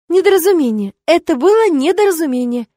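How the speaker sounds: high, loud flustered excuse. Acted. Witch cornered by the rector, high loud flustered excuse. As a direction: insist it was a mistake, flustered. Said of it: "честно ответила".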